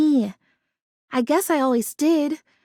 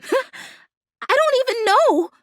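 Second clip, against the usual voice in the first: laughing; 7 semitones higher, much slower than usual. Acted. Laughs at not knowing what friends do.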